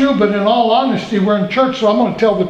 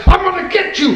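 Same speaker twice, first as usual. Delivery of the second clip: higher, mock menacing old man; grumpy old God; 9 semitones higher than usual. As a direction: ham up a cranky heavenly grouch. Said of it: "this irascible, long gray-haired, white-bearded person".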